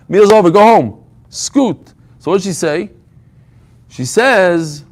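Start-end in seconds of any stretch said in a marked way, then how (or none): 0.1-1.9 louder, blunt shoo-away; mock shooing. Hostess telling guests to leave, mock loud shoo. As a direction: push the guests out the door.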